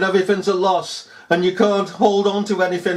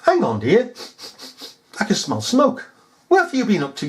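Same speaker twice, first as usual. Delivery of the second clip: lightly voiced, higher wifely questioning; suspicious wife; 4 semitones higher than usual. Wife smells smoke on her husband, mildly suspicious questioning. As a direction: play the wife sniffing out trouble.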